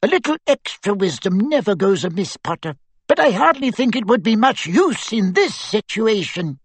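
put-on high, light voice of a tiny old wizard; a squeaky little professor, dry and wise; small professor voice. A narrator's reading. A small professor answering Harry, high and dry.

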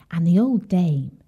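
ordinary delivery, nothing marked

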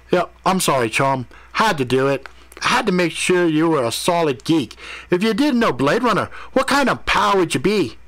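high, animated teasing voice; amused, matey prankster. Acted. Mordecai confesses to his pal after laughing, high playful teasing. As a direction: own up to the joke, pitch climbing.

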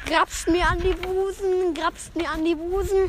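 high, slow sing-song echo; mimicked market cry. Joke teller mishearing the market woman, sing-song cry. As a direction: draw it out like the vendor's call.

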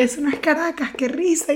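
pitched high, teasing; mocking retort. Teller mocking the Los Teques woman, high teasing retort. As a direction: sneer it with a high mocking laugh in the voice. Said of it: "Y que".

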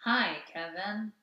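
slow, even sex robot voice. Pretend. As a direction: deliver it like a programmed sex robot. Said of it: "sex robot voice".

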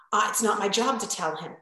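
breathy whispered reply; whispered client quote. Retold or imitated. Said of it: "And I'm like".

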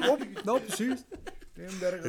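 mock talking through a mouthful; hammed-up full-mouth mumble. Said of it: "hablando con la boca llena".

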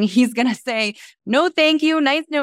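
squeaky imagined no; high imagined rejection. Retold or imitated. Imagined rejection in her head.

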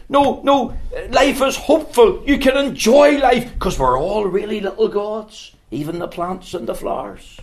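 laughing mockery of naive optimism; mock cheerful philosopher. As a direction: send up the Stoics' happy creed. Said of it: "other philosophers and says".

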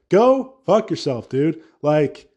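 mock-furious rant at cold lovers; heated rant. Real, not acted. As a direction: tell them off, fed up.

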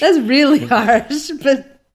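laughing out the words. Real, not acted. Reader laughing at Marilla's harsh remark, amused.

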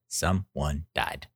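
slow, deliberate mock-grave delivery; mom's drawn-out bad news; imitating mother. Mother's grim punchline, retold.

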